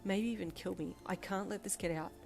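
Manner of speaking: hushed, half-whispered panic; frantic thought. Acted. Girl panicking inwardly about her dad, hushed whisper. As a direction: whisper the fears to yourself. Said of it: "you thought frantically".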